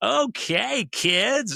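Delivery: put-on very high, insincere-sounding sarcastic kids'-host voice. Complaining that Barney the dinosaur drove him crazy, mock-sarcastic Barney voice. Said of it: "he talked like he was being sarcastic".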